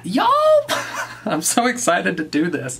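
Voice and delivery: squealing laugh, bubbling over; can't contain the thrill; excited laugh. Real, not acted. Finds cup stacking mat.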